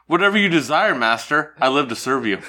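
lightly voiced servile woman; meek servant, hammed up; hunchback assistant. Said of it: "I'll be the woman".

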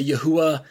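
"Yahuwah" said as a variant of the name; variant pronunciation. Shown as a demonstration. Teacher citing how some people say God's name, variant pronunciation. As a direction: sound out "Yahuwah" as others say it. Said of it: "some people say".

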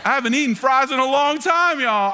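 loud, high, laughing outburst; laughing confession. Real, not acted. Pastor laughing to the congregation about missing fries. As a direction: laugh it out big to the crowd. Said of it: "laughing admission".

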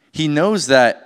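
usual speaking voice

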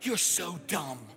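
slow, exasperated telling-off; hammed-up slow reprimand; mock scolding. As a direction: draw out the scolding in pretend disgust. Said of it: "He is not looking at you going like".

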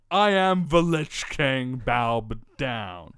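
slow, loud villain decree; hammed-up evil king voice; Lich King proclamation. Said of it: "walk into your local cop shop saying".

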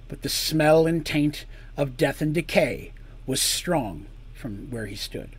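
measured dramatic storytelling; story narration. A narrator's reading. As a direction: narrate the scene deliberately, pausing between phrases.

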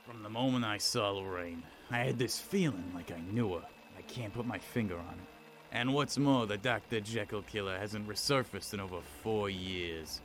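melancholic noir narration. Acted. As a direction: muse darkly into the recorder. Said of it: "You're getting poetic and melancholic again".

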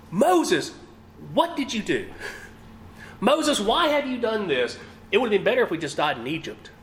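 high, fast panicky pleading; panicked crowd. Acted. Scared Israelites blaming Moses as the army closes in, panicked. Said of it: "feel that panic".

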